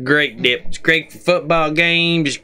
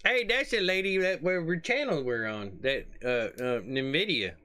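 quiet aside; 2 semitones higher, 12 dB quieter than usual. Real, not acted. Muted quiet commentary.

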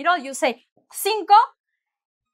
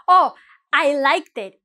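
slow, happy and louder; super happy; 7 dB louder than usual. Shown as a demonstration. Happy shopper pleased with the fit. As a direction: beam through the words. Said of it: "you're super happy".

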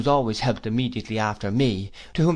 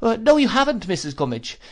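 roared out; 11 semitones higher, 4 dB louder than usual. Acted. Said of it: "roared out".

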